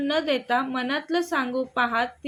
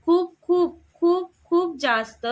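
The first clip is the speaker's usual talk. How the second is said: higher, louder, voice welling up with tears; tearful tender; 4 semitones higher, 5 dB louder than usual. A narrator's reading. Sakhi confessing love to Veer, tearful and tender. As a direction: pour out her love through tears. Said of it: "ओल्या डोळ्यांनी हळव्या स्वरात बोलली".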